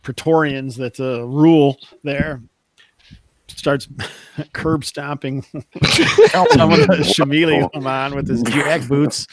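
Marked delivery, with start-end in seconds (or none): 3.5-9.3 slow, breaking up with laughter; laughing narration. Real, not acted. Game master recaps the player's brutal stomping, cracking up. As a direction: try to narrate through real laughter.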